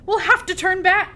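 high, loud shipboard call; alarmed pirate shout. A narrator's reading. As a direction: call urgently to the captain. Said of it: "called another".

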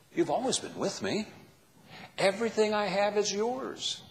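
a hint of a gentle, pleading father; gracious father. Father gently answering his resentful older son, lightly tender. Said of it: "the father's gracious reply".

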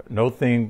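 "no thing" as two distinct words; split pronunciation. Shown as a demonstration. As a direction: say "no" with a long O, then "thing". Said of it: "we read it as nothing".

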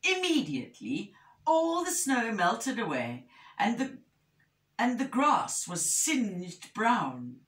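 animated picture-book narration; measured, expressive storytelling; story reading to children. A narrator's reading. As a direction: tell it clearly to young listeners.

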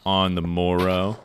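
put-on slow, old-timey repeat; archaic mock phrase. Shown as a demonstration. Streamer repeating the old phrase, slow and mock-archaic. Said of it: "No one says shit like that anymore".

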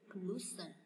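"pollution" with LU stressed, falling after. Shown as a demonstration. Teacher repeating the example for students, U of "pollution" stressed. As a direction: hit the U in "pollution". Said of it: "chữ U này".

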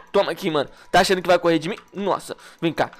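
usual speaking voice

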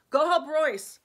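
high, loud barked command; barked order. Acted. Stefan barking an order to Ian over the fire's noise. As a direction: bark the order over the storm. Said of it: "Stefan barked in reply".

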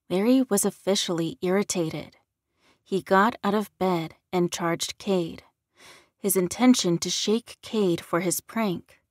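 ordinary delivery, nothing marked

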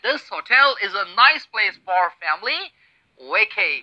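slow, deliberate reading; slow example read. Shown as a demonstration. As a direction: read slowly and clearly. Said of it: "you are supposed to say".

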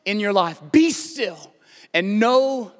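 forceful, repeated command; emphatic preaching as God. Acted. God to the troubled listener, emphatic commanding preaching. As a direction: declare it with building authority.

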